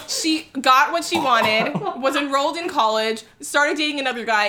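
laughing disbelief at the reveal; incredulous telling. Real, not acted. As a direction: tell it in disbelief. Shocked retelling of marriage reveal.

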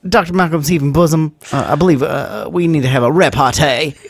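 stammering in a put-on Southern lawyer accent; Jeff Goldblum. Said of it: "trying to do Jeff Goldblum stammering while also, uh, doing the Southern accent".

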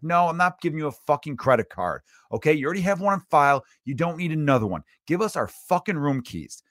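firmly refuse, indignant, as if replaying it; retold mad refusal. Guest refusing the desk clerk a card, mock indignant. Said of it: "me being mad at myself".

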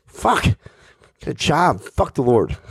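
put-on high indignant kid arguing; whiny kid rant. Kid yelling back at his mom, high and whiny. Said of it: "I said".

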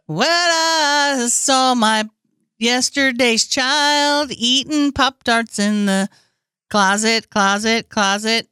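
drawn-out imitation. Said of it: "So he'll just be like".

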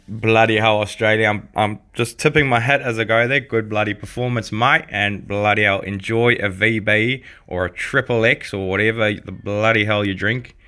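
put-on a lightly broad Aussie accent, matey and cheerful; broad Australian accent. Congratulating the Australians on their win, in a broad Australian accent. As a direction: sign off like a hearty Australian bloke, lightly done. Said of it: "interpretation of an Australian accent".

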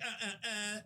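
imitated little "uh" cries, kept small; mock whipped yelps. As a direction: mimic someone taking blows, short and quiet. Retelling a woman being whipped.

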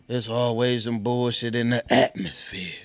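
Impression of a rapper. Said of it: "trying to get my rapper voice on".

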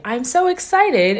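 drawn-out, high and loud excitement; excited. Acted. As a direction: gush it slowly, acting excited. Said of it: "you expect them to be like".

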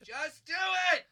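loud, high angry yell; angry shout. Acted. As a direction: bark the order. Angry passenger snaps.

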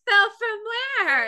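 high, slow puzzled question. Retold or imitated. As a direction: ask it as if baffled. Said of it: "And I'd be like".

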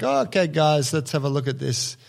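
put-on a light, accidental Brazilian accent on a visiting instructor. Mocking a hungover Brazilian seminar teacher in a slight Brazilian accent. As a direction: slip into a hint of a Brazilian accent. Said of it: "I didn't mean to say that with a Brazilian accent".

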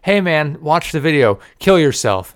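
loud, high mocking troll. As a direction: jeer it like an internet troll. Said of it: "people are like".

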